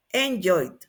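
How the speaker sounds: "enjoyed" ending straight on a stop consonant; correct past pronunciation. Shown as a demonstration. Teacher repeats the answer for students, careful falling "enjoyed". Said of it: "Entonces, sería enjoyed".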